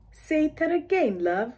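slow mock British accent, say that again drawn out; patiently asking again as a British local. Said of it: "then the local tells you".

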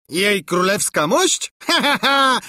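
high, incredulous question breaking into laughter; theatrical royal guffaw; laughing monarch. A narrator's reading. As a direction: dismiss the worry with a big laugh. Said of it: "zaśmiał się monarcha".

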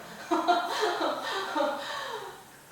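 real high-pitched burst of laughter; amused laughter. Real, not acted. Teacher laughing at their own anger at the navigation, high real laugh. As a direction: break into a long, helpless high laugh. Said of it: "내가 너무 웃긴 거예요".

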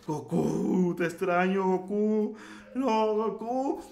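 mock mournful Bills calling for Goku; Bills missing Goku. Bills grieving Goku's apparent death, a mock sorrowful call. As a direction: play Bills pining over the lost Goku, lightly hammed.

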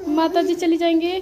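comforting. Real, not acted. Mother comforts crying daughter.

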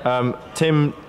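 hushed nature documentary narrator voice; light wildlife documentary narration; David Attenborough impression. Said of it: "a bit of David Attenborough".

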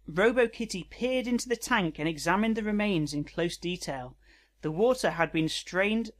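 measured read-aloud narration; narrating a written story. Acted.

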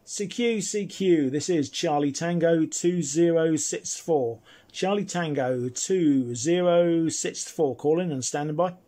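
slow, measured radio operator call. Real, not acted. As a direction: spell out the call sign slowly over the air. Radio call sign announcement.

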